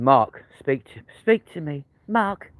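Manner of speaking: pleading soap-opera character, lightly voiced; a hint of soap drama, rising on the name; Gene Slater. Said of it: "Why do I sound like ... Gene Slater".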